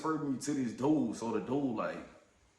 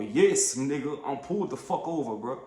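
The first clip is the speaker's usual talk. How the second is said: exasperated snap. Retold or imitated. Retold argument over phone.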